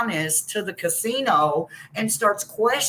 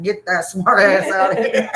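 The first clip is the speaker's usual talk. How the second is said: 1 laughing dismissal; 6 dB louder than usual. Real, not acted. Mocking mods kicking trolls.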